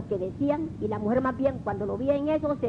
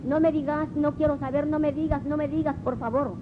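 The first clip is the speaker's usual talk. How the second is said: súplica desesperada, más aguda, con un toque de grito; súplica asustada; 4 semitones higher than usual. Retold or imitated. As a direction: ruega que pare de pegarle, voz subiendo. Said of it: "la mujer le gritaba". (la mujer golpeada le ruega al marido que calle, en una súplica aguda y asustada)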